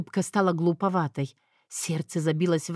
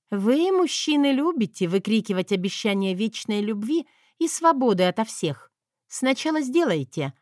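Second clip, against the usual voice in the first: bold rebuke; 2 semitones higher than usual. Acted. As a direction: lecture him spiritedly. She rebukes men boldly.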